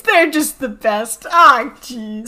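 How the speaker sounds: slow, lightly voiced doting father; a hint of a gushing proud dad; proud dad Koopa. Friends quoting the cartoon, as a lightly voiced doting Koopa. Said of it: "and he's like".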